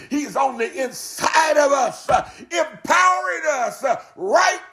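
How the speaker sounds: preacher getting fervently stirred up. Real, not acted. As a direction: let the sermon carry you away, ringing out key words. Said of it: "I didn't mean to get stirred up like this".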